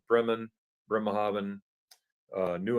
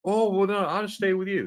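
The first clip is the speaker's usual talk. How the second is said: imagined friend; 9 semitones higher than usual. Retold or imitated. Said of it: "he would've".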